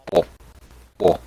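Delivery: short, separated "bo" sounds; deep masculine "bo". Acted. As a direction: voice the creature's repeated "bo". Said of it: "in a deep masculine voice".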